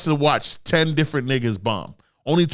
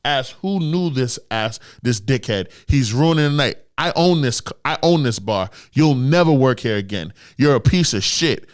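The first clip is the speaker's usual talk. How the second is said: Tony Soprano rant; 4 dB louder than usual. Retold or imitated. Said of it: "laid into this nigga on some Tony Soprano shit".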